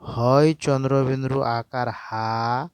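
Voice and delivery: teacher dictating syllable by syllable, slowly; slow spelling out. Shown as a demonstration. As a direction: slowly spell out হয় চন্দ্রবিন্দু আকার হা, drawing out each part. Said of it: "তাহলে এটা কেমন করে উচ্চারণ করব?".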